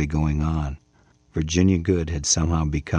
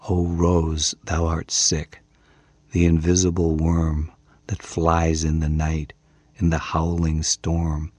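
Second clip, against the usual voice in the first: dream voice. Acted. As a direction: recite it like she's half asleep. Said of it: "recited it to me in the same dreamy voice".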